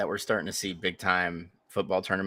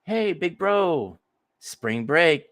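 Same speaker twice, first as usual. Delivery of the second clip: put-on teen sister asking; 9 semitones higher, much slower than usual. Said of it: "she's gonna be like".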